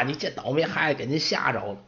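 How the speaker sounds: smooth things over with the guest; polite old servant. Acted. Old servant apologizing to the orc woman, soft and polite.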